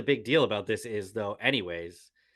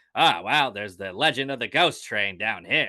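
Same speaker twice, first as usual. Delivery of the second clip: put-on carnival barker voice; 5 dB louder than usual. Speaker retells a weirdo talking while Joey asks about the spy plane, carnival barker voice. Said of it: "your Carnival Barker voice".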